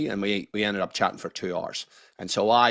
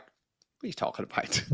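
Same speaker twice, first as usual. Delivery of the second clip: put-on incredulous kids; 12 semitones higher, 7 dB quieter than usual. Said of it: "my kids are like".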